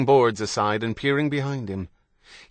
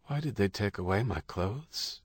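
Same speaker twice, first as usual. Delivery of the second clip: distant voice; 9 dB quieter than usual. A narrator's reading. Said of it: "his voice distant".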